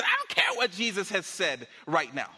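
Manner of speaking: moderately heated retort; acted angry dismissal. Angry person dismissing what Jesus said, heated. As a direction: brush the objection off angrily. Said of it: "because I'm mad".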